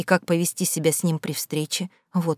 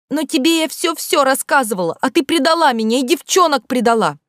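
high, loud hurt accusation; girl furiously arguing with her ex-friend; quarrel; 8 semitones higher, 4 dB louder than usual. Acted. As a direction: throw it at the friend who turned on her. Schoolgirls quarrel in the corridor.

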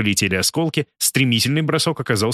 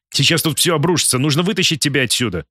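hurried blurt; 4 semitones higher than usual. Acted. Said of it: "торопясь выпалил".

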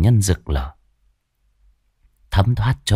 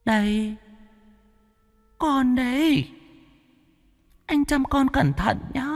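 much higher, softer, uncanny sing-song; creepy ghost voice; 6 dB quieter than usual. Acted. Ghost girl giving him the monster baby, sinister. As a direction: hand it over with sinister sweetness.

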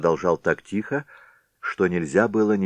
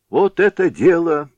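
delighted approval; 12 semitones higher, 7 dB louder than usual. A narrator's reading. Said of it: "сказал плечистый".

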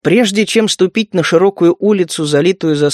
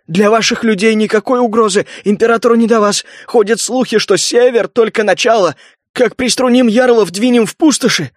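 higher, hurried frightened gabble; rattling off; 5 semitones higher than usual. Acted. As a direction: blurt it all out nervously. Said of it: "затараторил".

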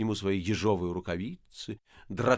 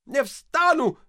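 stubborn repeat; 14 semitones higher, 6 dB louder, much slower than usual. A narrator's reading. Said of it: "повторил отец Фёдор".

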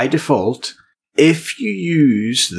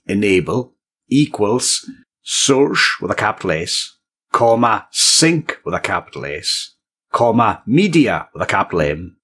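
dictating. Shown as a demonstration. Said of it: "Sorry for being so specific".

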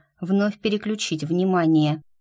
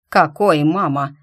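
angry grate; 6 dB louder than usual. Acted. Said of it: "проскрипел сильно злой ящер".

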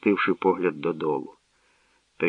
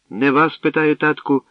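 higher, lightly smiling reply; smiling princess; 6 semitones higher, 4 dB louder than usual. A narrator's reading. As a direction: tease father with a smile. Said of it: "осміхнулася царівна".

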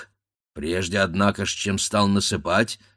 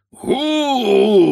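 loud high echoing boom; a loud boom rolling through the valley; 8 dB louder than usual. A narrator's reading. The stone crashing down, echoing boom. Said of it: "пошло по долине".

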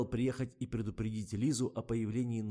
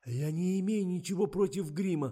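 high, loud, congested protest; stuffed-up excuse; 9 semitones higher, 6 dB louder than usual. A narrator's reading. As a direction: make excuses through a bad cold. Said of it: "явно сильно простуженный Миша".

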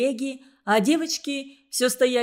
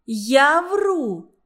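indignant repeat; 4 semitones higher, 5 dB louder than usual. A narrator's reading. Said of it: "не унималась Тося".

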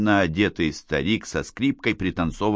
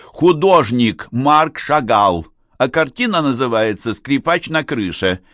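higher-pitched, innocent explanation; 5 semitones higher, 5 dB louder than usual. A narrator's reading. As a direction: explain it as if nothing were amiss. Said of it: "невинно пояснила Надежда". (невинно, как ни в чём не бывало)

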